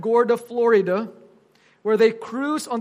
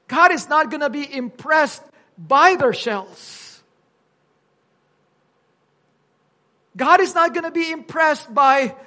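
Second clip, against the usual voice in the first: raised, louder pulpit voice; emphatic preaching; 4 semitones higher, 6 dB louder than usual. Real, not acted. Preacher warning the congregation about God's judgment, emphatic preaching. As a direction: drive the warning home to the congregation.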